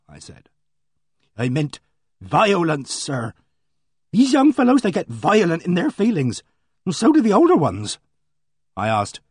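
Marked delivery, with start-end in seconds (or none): 1.4-8.0 higher, earnest village housekeeper, worked up; a flustered countrywoman pouring out her news; voiced housekeeper. Housekeeper gossiping to the invalid gentleman, higher and earnest. Mrs Baker warns.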